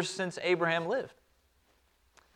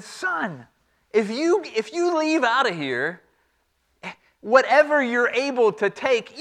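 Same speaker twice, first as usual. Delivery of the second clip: warning father; 4 semitones higher than usual. Acted.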